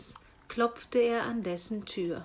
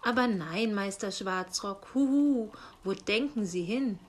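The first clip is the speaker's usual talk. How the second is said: a light owl voice with hooting huhu. Acted. Uncle owl asks the raven about his book, lightly hooting. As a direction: politely hoot like an old owl. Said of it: "beschwichtigte ihn der Uhu".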